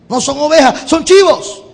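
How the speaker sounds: a hint of a joking Jesus; mock Jesus quip. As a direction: tease it in a lifted voice. Jesus voiced mocking the disciples.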